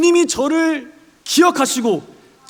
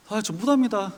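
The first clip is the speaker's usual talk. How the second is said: polite refusal; 3 semitones lower, 6 dB quieter than usual. Pretend. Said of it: "아주 고상히 지금 말하고 있는 거예요".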